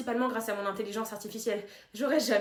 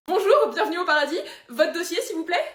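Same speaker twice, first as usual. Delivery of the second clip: bright eager welcome, higher and louder; bubbly greeter; 5 semitones higher, 7 dB louder than usual. Acted. Heaven's receptionist welcoming a new arrival, bubbly. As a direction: greet the newcomer like an overexcited hostess.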